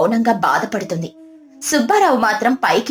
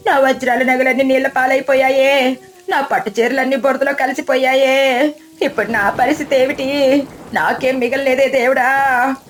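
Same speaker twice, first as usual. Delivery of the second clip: wailing sobs; 3 semitones higher than usual. A narrator's reading. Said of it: "Kamalamma బోరున ఏడుస్తూ".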